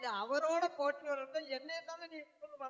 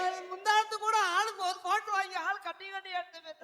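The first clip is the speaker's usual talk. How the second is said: mock lament; 4 dB louder, faster than usual. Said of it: "அழுதுகிட்டு இருக்கான்".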